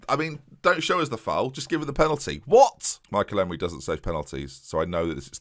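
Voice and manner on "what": high, loud disbelieving yelp; shocked outcry. Real, not acted. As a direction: bark it out in disbelief. Penalty given against him.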